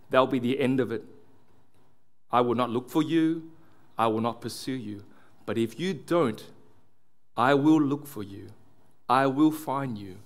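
lightly acted determined father's threat; measured mock movie threat, with deliberate pauses. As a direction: give a hint of a resolute father warning abductors, no accent. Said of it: "he's so determined".

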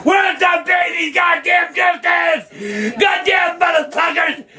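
real outrage, yelling at the TV; furious outburst. Real, not acted. Man yelling at the TV over the verdict, furious. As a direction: shout it in disbelief at the verdict. Raging about justice for the baby.

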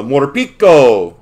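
Morpico drawn out with a Hispanic flourish; playful Hispanic accent. Pretend. Card opener hamming up a name, playful Hispanic accent. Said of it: "add that little Hispanic in there".

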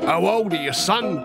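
lightly voiced veteran asking pointedly; knowing old sergeant. Sergeant asking the boy's age for show, knowing. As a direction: play along as the sergeant.

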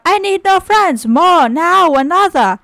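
high, theatrical princely wail; storybook outcry. A narrator's reading. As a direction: cry out as the petulant prince. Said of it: "The prince cried out".

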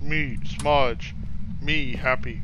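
caveman voice. Pretend. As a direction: speak like a simple caveman. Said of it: "You sound like caveman".

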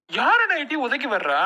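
furious slow challenge; angry challenge. Acted. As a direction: hurl the threat across the room. Brother-in-law quarrel turns violent.

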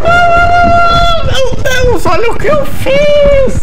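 high, loud shriek of disbelief; excited shriek. Retold or imitated. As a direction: squeal it out in a frenzy. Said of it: "escapei do rato de forma muito doida".

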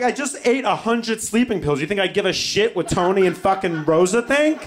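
loud, high, indignant rant; hammed-up angry yell. Son yelling back at mom, indignant. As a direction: yell back in comic exasperation.

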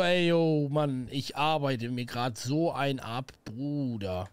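lightly mocking boss, drawn out; slow, sagging impression of a slacking boss; imitated boss. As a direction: drag it out like a weary boss. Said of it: "Wenn er sagt so".

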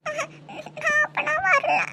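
slow, whimpering backing out; a child's tearful, reluctant no; tearful refusal. Acted. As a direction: draw it out through little sobs. Child backs out, scared of injection.

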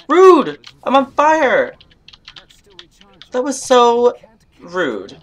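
high, loud indignant shriek; mock outraged yell. Player burning in the barn, mock outraged yell. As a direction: yell it like a scandalised diva. Set on fire by the trap.

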